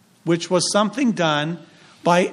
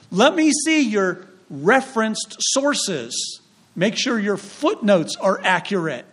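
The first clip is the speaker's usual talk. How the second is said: mock professor; 3 semitones higher, slower than usual. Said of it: "He wants to know".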